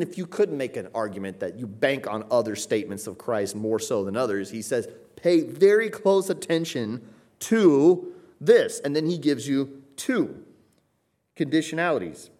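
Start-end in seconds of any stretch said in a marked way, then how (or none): 5.2-8.8 urgent warning. Acted. Preacher quoting Christ's warning.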